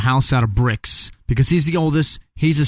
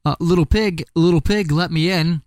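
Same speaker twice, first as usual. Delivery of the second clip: sweetly coaxing wolf, pitched a little up; nicest voice possible; 4 semitones higher than usual. Acted. Wolf sweet-talking the pig at the door, lightly coaxing. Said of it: "in his nicest voice possible".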